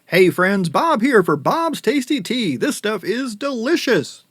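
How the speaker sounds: hammy TV ad pitchman, high and slow; bad acting. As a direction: oversell the tea like a cheesy commercial. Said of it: "please excuse my bad acting".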